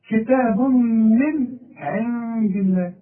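slow recited phrase with ikhfa on the nun; Quranic recitation. Shown as a demonstration. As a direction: recite slowly, hiding the nun before dal. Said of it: "والدال من حروف الإخفاء".

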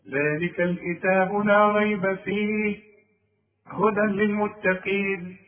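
slow recitation broken after فيه; pause after فيه. Shown as a demonstration. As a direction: chant through ريب, rest on فيه before هدى. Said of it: "اثنين".

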